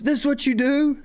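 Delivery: high, clearly put-on old man voice, laughing through it; mocking old man. Old man accusing the narrator of stealing spots, laughing put-on voice. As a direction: play the cranky old man, barely holding a laugh. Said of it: "and he goes".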